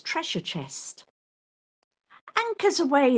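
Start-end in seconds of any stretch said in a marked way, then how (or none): 2.4-3.2 higher, louder ship's order; captain cries out. Acted. Pirate captain crying out to his crew, loud and high. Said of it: "the captain cries".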